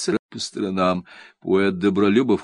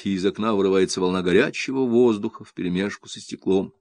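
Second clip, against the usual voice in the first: ordinary delivery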